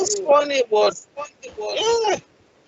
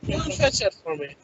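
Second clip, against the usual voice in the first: softer, gentle ask "go and fetch it for me"; polite request; 3 dB quieter than usual. Shown as a demonstration. Asking a partner a favour, softer and polite. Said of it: "Same, same line, but different tones".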